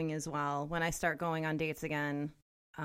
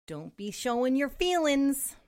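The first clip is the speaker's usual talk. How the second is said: mock macho voice; 6 semitones higher, 4 dB louder, slower than usual. Mocking macho advice to boys.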